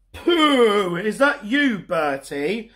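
a hint of a mortified father; sniffy Dad. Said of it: "sniffed Dad".

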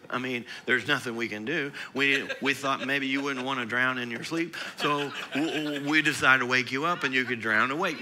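lightly voiced disciple, resigned, half laughing; a hint of a doomed disciple, chuckling; mock panicked disciple. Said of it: "Jesus was not impressed with that kind of a reaction".

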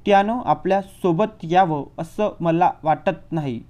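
slow, whining fake cry; hammed-up crocodile sobs; fake sobbing. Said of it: "खोटे खोटे हुंदके देत ओरडत होता". (खोटे खोटे हुंदके देत रडवेला आवाज)

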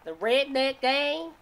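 slow, high-pitched disbelieving question; drawn-out rising question; incredulous echo. Real, not acted. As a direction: repeat it back slowly in disbelief.

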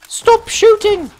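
high, slow, pleading cry; mock pleading. Gamer begging enemy soldiers for a timeout, in high mock pleading. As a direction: beg the enemy to stop, hammed-up. Begging enemies to stop firing.

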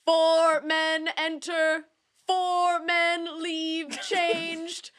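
slow, solemn documentary narration; deep alto narration. Shown as a demonstration. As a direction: intone it slowly and gravely. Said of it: "how would you narrate".

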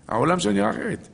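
lifted high, driving the point home. Shown as a demonstration. Preacher repeating to listeners, high and emphatic.

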